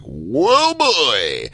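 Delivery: hammed-up drunk exclamation; drunk whoa. Drunk on stage, acted reaction.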